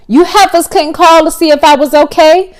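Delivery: high, squeaky teasing voice. A narrator's reading. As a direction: squeak it out, cheeky. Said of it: "a squeaky voice said".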